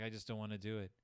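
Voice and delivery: low, listless mock voice; weary, softened delivery sunk low in pitch; bored, depressed Mama. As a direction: imitate a mother who can't bring herself to do anything. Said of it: "bored expression on her face".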